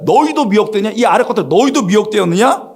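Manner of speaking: high-pitched, indignant accusation; mock-angry Pharisee challenging his men; acted rebuke. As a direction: berate the underlings as a haughty superior. Pharisees berate guards, acted.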